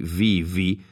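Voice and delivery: βι βι read slowly as "vee vee"; two slow, separate syllables "vee", "vee" for βι βι; modern Greek reading. Shown as a demonstration. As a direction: say βι βι with v and ee, deliberately. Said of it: "όπως προφερόταν το βι και το ήτα στα νέα ελληνικά".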